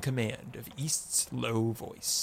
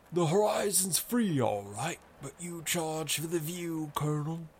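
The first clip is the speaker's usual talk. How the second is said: unhurried and sure of himself; lazy-bone certainty; 6 semitones higher than usual. A narrator's reading. Reefer needling the Colonel about the view, lazy-bone certainty. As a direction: tease him with lazy, easy confidence. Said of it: "Reefer said with lazy-bone certainty".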